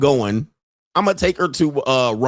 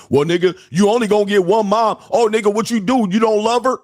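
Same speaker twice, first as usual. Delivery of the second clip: higher, mocking guilt-trip whine; mocking relatives; 7 semitones higher than usual. Mimicking relatives who nag about mom, high mocking whine. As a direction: mimic the relatives' nagging voice, pitched up. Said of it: "what do they hit you back".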